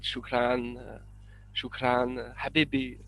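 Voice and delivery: light Arabic shukran habibi; a little Arabic, lightly; Arab accent. Shown as a demonstration. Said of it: "I can do a little bit".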